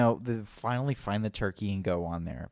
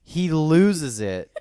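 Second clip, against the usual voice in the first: excited retelling; 5 semitones higher, 4 dB louder than usual. Real, not acted. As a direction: build it up with amused disbelief. Excited storytelling, laughing build.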